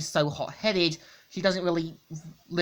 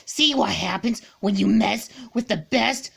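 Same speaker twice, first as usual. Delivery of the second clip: high, louder, cocky taunt; gloating; 5 semitones higher, 3 dB louder than usual. Acted. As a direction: gloat over the wrecked robot. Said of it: "and says".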